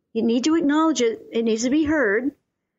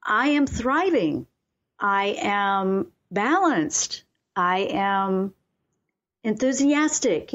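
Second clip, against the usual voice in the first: slow, deliberate affirmations with pauses between them; unhurried, earnest self-affirmation; calm affirmation; slower than usual. Shown as a demonstration. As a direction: declare each one slowly and sincerely. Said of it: "or you're just feeling overwhelmed".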